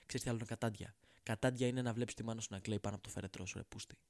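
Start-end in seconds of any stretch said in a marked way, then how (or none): 1.2-4.0 fast, hushed dark whisper. Acted. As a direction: hiss the grim punchline under your breath.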